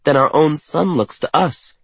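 high, eager wonder; excited raving. A narrator's reading. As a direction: gush about the view. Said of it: "Katerina raves".

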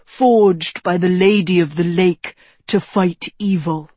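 a touch of a mentor's measured, emphatic delivery; lightly voiced wise wizard. Wizard challenging the young king about the sword, lightly voiced mentor. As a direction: press the point as the old wizard, lightly.

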